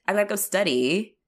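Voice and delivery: "study" tipped up like a question; upward inflection. Retold or imitated. Mimicking a British-style statement, questioning lift on "study". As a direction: state it but let "study" rise. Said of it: "it's like an up inflection".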